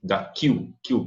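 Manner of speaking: "Da Q" broken into syllables, U sounded as "kyu"; pronounced U. Shown as a demonstration. Teacher isolates the syllable for learners, pronounced-U demo. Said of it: "esse U é pronunciado".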